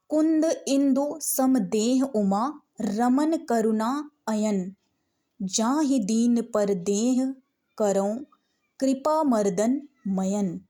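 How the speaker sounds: slow, measured devotional reading; slow verse recitation. Shown as a demonstration. Teacher reads the next sortha to students, slow recitation. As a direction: intone it for the class.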